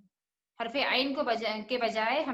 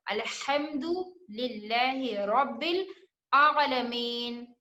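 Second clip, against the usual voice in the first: slow recitation; much slower than usual. Shown as a demonstration. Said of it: "हर्फ हा भी आ गया और हर्फ आइन".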